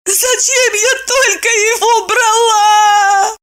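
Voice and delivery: high weeping woman's voice; tearful wail. A narrator's reading. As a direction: lament through tears. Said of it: "Горько заплакала Евдокия".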